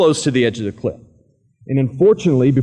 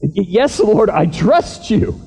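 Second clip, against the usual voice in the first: hesitant fear; 9 semitones higher, 4 dB louder, slower than usual. Acted. Will answers God fearfully.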